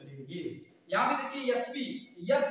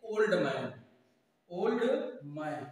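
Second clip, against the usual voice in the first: slow demo; 4 semitones lower, slower than usual. Shown as a demonstration. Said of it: "ये दोनों तरीके से आपका ठीक है".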